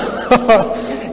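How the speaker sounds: high amused laugh mid-story; helpless storyteller's chuckle; real laugh. Real, not acted. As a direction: break into laughter at your own tale.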